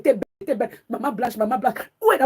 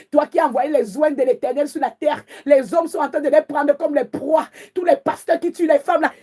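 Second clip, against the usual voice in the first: fervent prayer; 3 semitones higher than usual. Real, not acted. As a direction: cry out to heaven in fury. (prière enflammée, voix haute et forte)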